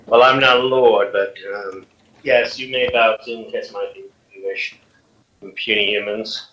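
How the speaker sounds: lightly voiced arrogant dragon; booming arrogant alien overlord. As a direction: talk down to puny humans. Dragon boasting to the humans.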